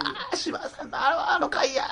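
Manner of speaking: high, laughing imitation of the husband; lightly hammed-up husband; mock husband voice. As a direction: play the husband spotting the episode, giggling. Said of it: "って言うてんの".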